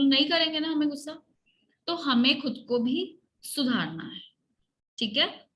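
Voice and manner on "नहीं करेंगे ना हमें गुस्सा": quick choral answer model. Shown as a demonstration. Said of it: "ऐसे बोलो".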